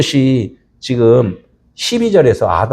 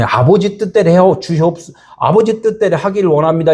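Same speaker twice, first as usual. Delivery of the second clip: lifted, earnest prayer voice; Jesus quoted praying reverently; 4 semitones higher than usual. Shown as a demonstration. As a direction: pray it humbly as Jesus. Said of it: "이렇게 기도를 했는데".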